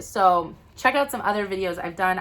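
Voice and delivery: usual speaking voice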